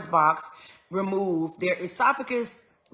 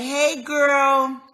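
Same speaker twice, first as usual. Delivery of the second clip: cheerful greeting; 6 semitones higher, 6 dB louder than usual. Retold or imitated. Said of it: "I'm laughing, I'm smiling".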